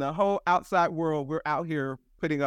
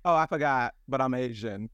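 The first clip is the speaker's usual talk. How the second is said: dry remark; 3 semitones lower than usual. Retold or imitated. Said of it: "Then he goes dryly".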